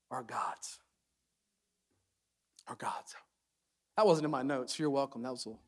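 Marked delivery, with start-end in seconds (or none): 0.1-3.1 low, hushed and grave; soft. Real, not acted. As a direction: drop it very softly, let it sink in. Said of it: "that was just soft".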